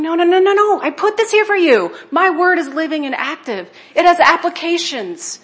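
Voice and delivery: a lightly voiced God, gently insisting; voicing God. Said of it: "he's there going".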